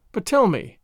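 lightly merry, a touch livelier; playful, mildly merry curiosity. Acted. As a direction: ask with understated merriment. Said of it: "she added merrily".

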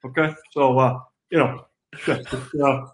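lightly voiced coach impression, filler-laden and halting; Kirk Ferentz. Player imitating his coach for the host, lightly voiced coach impression. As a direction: talk like a coach tossing out stock phrases. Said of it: "recreate for us in his voice".

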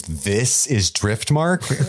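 mild mock yell, drawn out; half-hearted imitation of a scream; retold battle cry. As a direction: stretch it slowly like a movie war cry. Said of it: "kicks Rhaenyra and screams".

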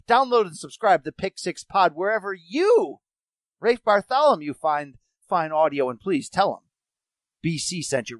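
upbeat radio ad voice; ad read. Acted. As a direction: sell it like a podcast promo. Podcast ad read.

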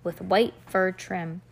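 measured, expressive story reading; storybook read-aloud. A narrator's reading. Reader tells a child about two girls dressing up, storybook read-aloud.

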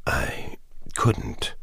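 breathy, barely voiced mutter; a weak man forcing out the words under his breath. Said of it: "he muttered".

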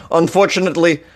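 bad Russian accent; mock Russian-accented newsreading. Shown as a demonstration. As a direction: try a clumsy Russian accent. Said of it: "Let me do it for a little while longer".

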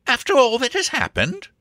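high-pitched incredulous protest; astonished cry. Acted. Sir Jasper questions Angela's love, high and astonished. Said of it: "cried Sir Jasper".

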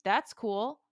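light, unbothered shrug of a line; nonchalant imitation. Freddie answering Neville's defiance, nonchalant. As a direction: toss it off as if nothing matters. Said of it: "He was so nonchalant".

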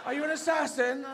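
high questioning dog voice; unsure dog. Acted. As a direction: ask it like a doubtful dog. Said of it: "an unsure dog".

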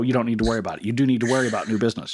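quick self-correction, weight on "do"; stress on "do". Real, not acted. Co-host correcting his joke about new business, stress on "do". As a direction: lean on "do" against the earlier "don't". Corrects himself, contrasting don't and do.

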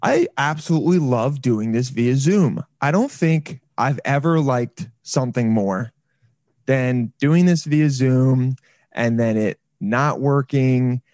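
exasperated mock enthusiasm; sarcastic. Real, not acted. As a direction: pretend to love it while fed up. Sarcasm over broken Zoom audio.

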